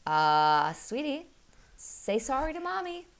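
a gentle dad nudging his daughter; coaxing husband. Retold or imitated. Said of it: "he's like".

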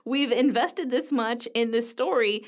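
high, startled wait-what; surprised protest. Retold or imitated. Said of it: "And I was like".

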